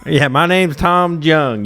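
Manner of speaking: high, slow put-on Chinese accent; mock Chinese accent. Comedian plays Tom Jung for friend, slow mock Chinese accent. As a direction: stretch it out in a jokey Chinese accent. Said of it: "Do the accent".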